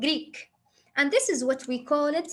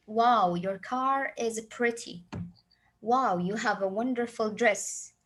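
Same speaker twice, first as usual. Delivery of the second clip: proper formal English; 3 semitones lower, slower than usual. Shown as a demonstration. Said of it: "if I'm talking standard in English".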